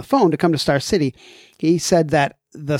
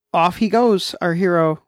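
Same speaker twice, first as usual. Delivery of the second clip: mock narration; 5 semitones higher than usual. Mock-heroic farewell narration of hero.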